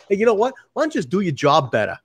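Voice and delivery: a mock Boston finance guy brushing people off, Boston accent only hinted. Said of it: "I love the Boston accent".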